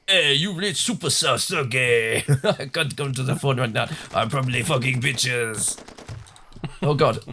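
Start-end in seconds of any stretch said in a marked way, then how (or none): 0.1-5.8 Sergei's voicemail. Pretend. Mock voicemail greeting for Sergei.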